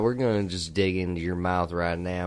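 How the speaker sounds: put-on comfortable Southern gentleman accent; fancy southern accent. Imitating the dentist talking to his patient, comfortable fancy southern accent. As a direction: play an easygoing southern dentist. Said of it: "a comfortable southern fancy accent".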